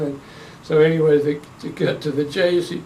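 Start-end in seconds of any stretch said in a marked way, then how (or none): none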